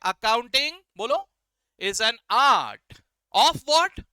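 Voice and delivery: teacher reciting loudly with the class; loud recitation. Shown as a demonstration. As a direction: call it out for everyone to repeat. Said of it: "सभी लोग मेरे साथ जोर जोर से बोलेंगे".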